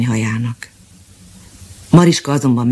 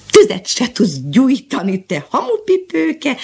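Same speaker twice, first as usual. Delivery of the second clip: slow, high taunting cat call; cat's mock shout; 10 semitones higher, slower than usual. The cat shouts a taunt at Mariska, mock shout. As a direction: jeer at the clumsy girl. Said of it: "kiáltott rá Mariskára".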